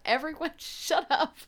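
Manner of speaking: Jake's order dissolving into laughter; laughing mock order. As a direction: snap at everyone while cracking up. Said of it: "and Jake's like".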